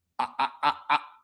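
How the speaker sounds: furious stammer, stuck repeating "I". Ranting that demoing is hard to understand, the speaker starts stuttering with anger. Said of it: "I'm stuttering with anger".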